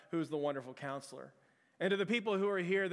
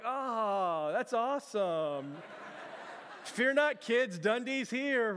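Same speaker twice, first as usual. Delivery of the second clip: mock hero; 5 semitones higher, much slower than usual. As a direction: puff up like a cartoon adventurer. Playing brave hero to kids.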